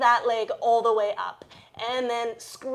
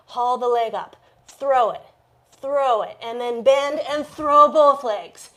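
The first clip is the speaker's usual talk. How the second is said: urging shout; 6 dB louder than usual. Shown as a demonstration. Coach urging a handstand kick.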